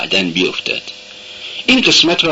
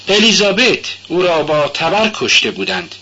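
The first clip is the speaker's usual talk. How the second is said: put-on high, young girl's voice, earnest; young girl protesting she does go to church; timid Sonia; 8 semitones higher than usual. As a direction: answer shyly but eagerly.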